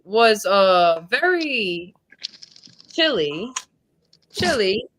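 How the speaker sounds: halting attempt at British; put-on British, with hesitant gaps; British accent. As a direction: feel your way into a British accent. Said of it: "have a conversation in British accent".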